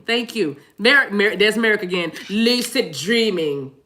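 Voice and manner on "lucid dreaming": slow. Shown as a demonstration.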